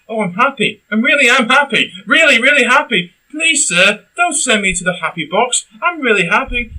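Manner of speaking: high, sing-song fake happiness; mock forced cheer. Mocking the lead's forced happy lines, high fake cheer. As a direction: parody a forced-smile robot girl begging to stay happy.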